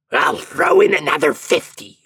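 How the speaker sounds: loud, high devilish voice; prince of hell. A narrator's reading. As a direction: haggle as an exasperated devil.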